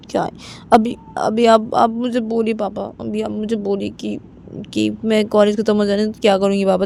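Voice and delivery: lightly voiced, anxious daughter's plea; pleading daughter. Daughter asking Papa about life after college, pleading. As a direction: press Papa for an answer, repeating yourself insistently.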